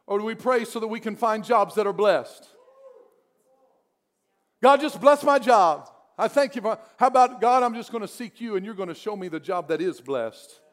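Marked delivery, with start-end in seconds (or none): 4.6-6.8 mock lazy prayer. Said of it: "That's a better way to pray".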